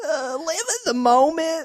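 cracking up mid beauty queen voice; laughing through a pageant answer; pageant voice through laughter. Retold or imitated. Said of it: "I can't even do that voice".

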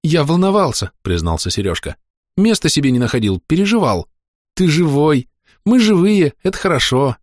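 put-on high, eager boyish voice; an anxious kid relieved at last; young recruit. Young recruit tells the narrator how he worried, high and eager.

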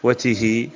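وته said "wa-tihii" with a long last vowel; lengthened final vowel. Shown as a demonstration. Teacher contrasting forms of the demonstrative, long-ended وته. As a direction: draw out the end of وته. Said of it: "بقصر التاء".

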